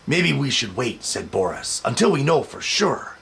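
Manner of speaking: put-on lilting read-aloud for children. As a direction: read it like bedtime to little kids. Reading picture book aloud.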